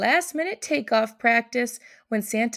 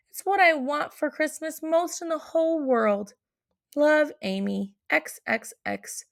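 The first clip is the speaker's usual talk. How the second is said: Amy's letter; 3 semitones higher than usual. Acted. Amy's letter read in child voice.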